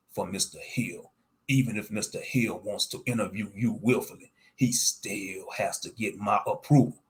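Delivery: low, firm warden voice; authoritative. Acted. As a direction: lay down the law calmly. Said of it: "Warden Jabril said with authority".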